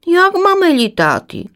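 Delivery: high, eager little chick voice; little swallow chick. Acted. Chick Dobrovka asks mother swallow, high and curious.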